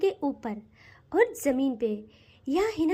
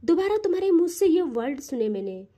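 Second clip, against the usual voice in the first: angrily; 2 semitones lower than usual. Acted. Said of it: "गुस्से से देखती है".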